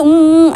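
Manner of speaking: mumbling through a hand over the mouth; mild muffled hums under a hand. Retold or imitated. Wing, mouth covered by the teacher's hand, muffled hum. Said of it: "ऐसे करते जा रहा था".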